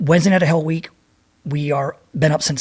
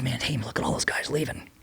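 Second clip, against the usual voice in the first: soft, lower whisper to his buddy; hushed whisper; 4 semitones lower, 12 dB quieter than usual. Retold or imitated. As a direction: keep it down, just between you two. Whispering in the surf.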